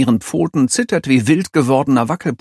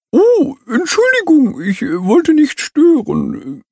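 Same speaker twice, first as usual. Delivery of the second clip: stammering; 3 dB louder than usual. A narrator's reading. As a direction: stammer an apology. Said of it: "stammelt der Strauß".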